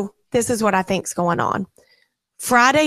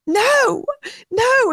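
whiny daughter; 13 semitones higher than usual. Retold or imitated. Mother imitates daughter refusing the hairspray. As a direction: wail the no like a distressed kid. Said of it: "And she said".

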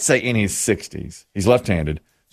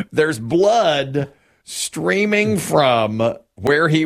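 laughing; 5 semitones higher, much slower than usual. Real, not acted. Laughing while retelling the bloody court.

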